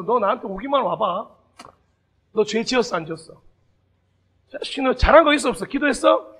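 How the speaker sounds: loud, stern grilling; mock-scary interrogation of a sinner; stern interrogating Jesus. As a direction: fire the questions like a strict judge. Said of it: "이렇게 하시는 분이 아니셨잖아요".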